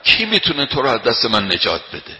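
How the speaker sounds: loud, menacing retold challenge; enemy standing over the Prophet with a sword, loud mock threat. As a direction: throw the threat down over the sleeping man. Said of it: "بلند فریاد زد".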